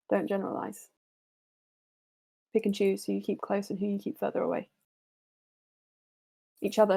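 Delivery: measured, serious mentor voice; earnest counsel to the party; wise mentor NPC. Acted. NPC continues advice.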